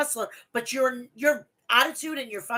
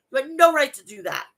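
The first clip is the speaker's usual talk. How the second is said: angry repeat; 4 dB louder than usual. Real, not acted. Repeats scolding at Punk.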